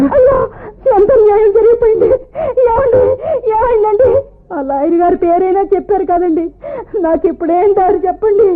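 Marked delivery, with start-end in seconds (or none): 0.0-4.1 higher, crying cries of alarm for her husband; theatrical wailing. Acted. Wife wails over husband. (భర్త కోసం నాటకీయ విలాపం)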